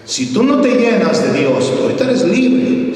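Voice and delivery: high, loud pleading command; pastor's fervent warning; urgent warning. Retold or imitated. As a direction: warn her hard, pitch up.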